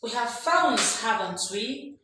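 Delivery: "haven't we" lifted at the end; rising tag question. Shown as a demonstration. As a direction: state "We have phones", then swing up on "haven't we". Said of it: "rising tone is for tag questions".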